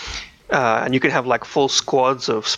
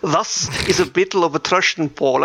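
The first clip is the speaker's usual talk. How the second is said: put-on South African accent; 3 semitones higher than usual. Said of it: "South African accents".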